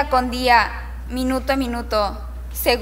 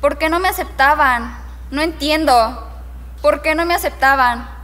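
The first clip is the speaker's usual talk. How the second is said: acted frustration, a little louder and more insistent; frustrated pleading; 2 semitones higher, 3 dB louder than usual. Rejected teen asking why nobody accepted them, frustrated. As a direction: press the questions with mounting frustration.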